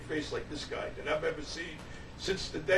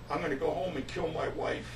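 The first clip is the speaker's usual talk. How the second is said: imitated deadpan announcement; retold poker-faced threat; straight-faced deadpan; 4 dB quieter than usual. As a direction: say it with no hint of a joke. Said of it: "with the straightest face".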